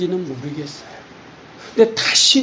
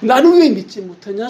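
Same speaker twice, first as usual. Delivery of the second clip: mock rebuke from God; 3 semitones higher than usual. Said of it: "서부터 해가지고".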